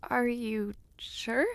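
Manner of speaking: slow, breathless unvoiced whisper; awed whisper. Amazed the ring came from his home, whispered slowly. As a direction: hardly dare ask it, whispering slowly.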